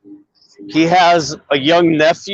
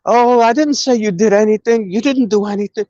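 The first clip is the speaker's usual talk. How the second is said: retold meek backing down, slightly higher; bitching up; 3 semitones higher than usual. Kim backs off when challenged by Radical, mock-meek. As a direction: imitate someone hastily climbing down. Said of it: "he bitched up".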